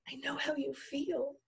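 soft, high hushed voice; whisper. A narrator's reading. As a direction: console very quietly, almost whispering. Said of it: "the bone whispered".

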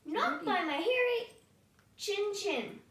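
high, cheeky little pig voice; defiant little pig. A narrator's reading. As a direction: refuse the wolf, high and bold. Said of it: "said the pig".

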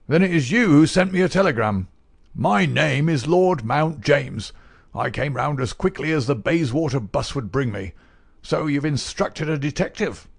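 put-on a testy old uncle demanding answers; sharp-crackling old miser. A narrator's reading. Miser confronting the detective over papers, indignant crackle.

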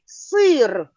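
сир stretched sound by sound; word sounded out. Shown as a demonstration. Teacher asking for all the sounds, сир drawn out. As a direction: draw out the И and Р in сир. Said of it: "Назвіть усі звуки у слові".

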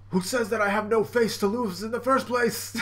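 high, theatrical voice with a laugh; hammed-up gleeful retort; joking Brook. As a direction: deliver a punchline, then cackle. Brook laughs at own joke.

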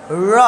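र with tongue curled back to the roof; heavy curled-tongue र; retroflex r. Shown as a demonstration. Teacher showing it is spoken there too, retroflex र. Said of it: "ये भी आपको वहीं बोलना है".

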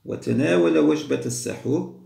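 ordinary talk, nothing marked

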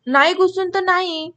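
understated fed-up insistence; mild exasperation. A narrator's reading. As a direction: push back with a touch of impatience. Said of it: "कौतिक जिकिरीनं म्हणाले".

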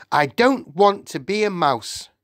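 high-pitched, mildly shouted refusal; protesting shout. A narrator's reading. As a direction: wail a childish protest. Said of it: "Bruno shouted".

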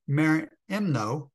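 merimno said slowly, syllable by syllable, as a Greek word. Shown as a demonstration. Preacher slowly sounding out the Greek word merimno for the congregation. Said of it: "a Greek word".

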